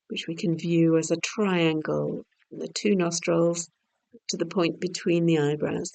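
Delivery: unhurried relaxation voice, easing off at phrase ends; guided meditation. Real, not acted. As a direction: guide the breath gently, with long silences. Leads breath awareness.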